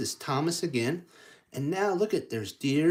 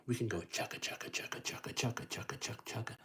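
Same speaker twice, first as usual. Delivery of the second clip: breathy chugga; 8 dB quieter, faster than usual. Shown as a demonstration. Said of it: "we don't have to be".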